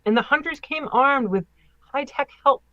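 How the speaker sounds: measured read-aloud with careful phrasing; article read aloud. Acted. Host reads Loch Ness story to co-host, article read-aloud. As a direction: read it out like a news feature.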